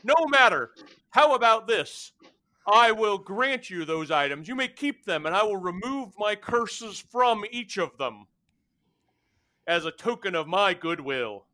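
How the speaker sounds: laughing lordly fire being; telepathic creature. Acted. GM voices Ilvatri.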